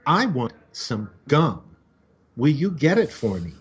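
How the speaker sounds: child nagging mom at the grocery store, a hint of a whine; whiny kid. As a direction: drag it out like a sulky little kid. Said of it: "And so the kid goes".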